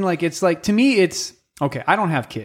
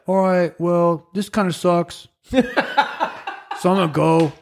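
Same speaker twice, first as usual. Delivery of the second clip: mock casual dad; 3 semitones higher, slower than usual. Dad voiced leaving.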